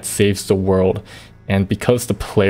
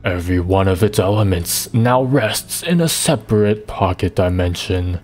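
slow, menacing undead villain; lich voice; 2 semitones lower, slower than usual. Acted. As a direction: read as a cold ancient lich. Reads the lich's lines in voice.

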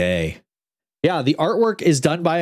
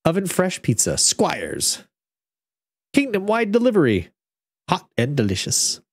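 1 ad voice; 5 semitones higher than usual. Acted. Pizza ad inside story.

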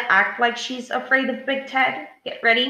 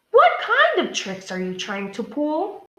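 higher, accusing demand for pupils to copy; 5 semitones higher than usual. Shown as a demonstration. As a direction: model Maria's challenging question. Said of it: "Say that question the way Maria said it".

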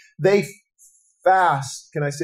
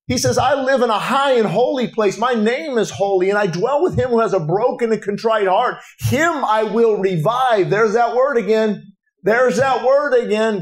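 raised-pitch, driving sermon delivery; preaching; 4 semitones higher than usual. Real, not acted. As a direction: preach it with building conviction. Preaches with rising force.

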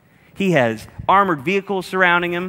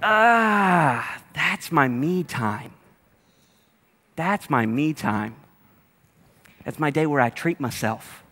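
mock whine; slower than usual. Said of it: "whining about losing me time".

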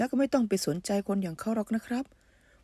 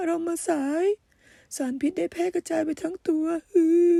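sobbing mother; 4 semitones higher than usual. Acted. Mother breaks down over son.

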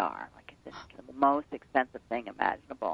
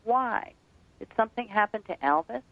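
perplexed; 6 semitones higher than usual. Retold or imitated. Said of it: "she goes, like, kinda perplexed".

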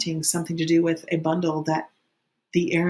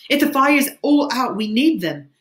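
loud, raised voice, high at the start; high yell easing slightly at the end; urgent shout; 7 semitones higher, 6 dB louder than usual. A narrator's reading. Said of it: "shouted Ralph".

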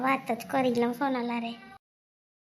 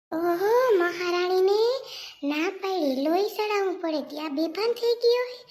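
sarcastic mockery; 4 semitones higher, 3 dB louder than usual. Mother-in-law sneering at daughter-in-law's fainting. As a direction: sneer at the little queen.

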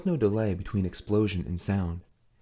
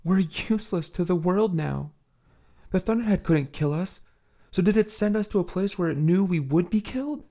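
Hilliard's voice; 9 semitones higher than usual. Acted.

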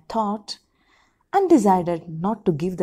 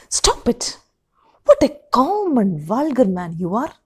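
much higher, sharp stop it; angry outburst; 3 semitones higher, 5 dB louder than usual. Acted. Wife rebuking husband as vulgar, much higher and angry. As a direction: cut him off in disgust.

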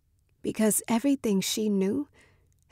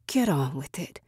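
snarled; 4 semitones lower than usual. Acted. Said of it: "she snarled".

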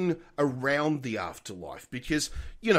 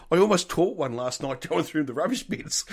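laughing through the punchline; 3 semitones higher than usual. Retold or imitated. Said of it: "and he goes".

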